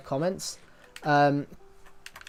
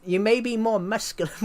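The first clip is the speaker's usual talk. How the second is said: put-on Chirag Gupta accent; 6 semitones higher than usual. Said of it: "A Chirag Gupta accent".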